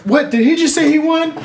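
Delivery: very high, loud mock disbelief; incredulous outburst. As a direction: squawk it in reenacted outrage. Acting out disbelief at the claim.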